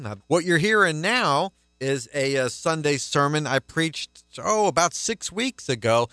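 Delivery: brisk radio host intro; radio announcement. Real, not acted. Radio host introducing the sermon to listeners, brisk announcer read.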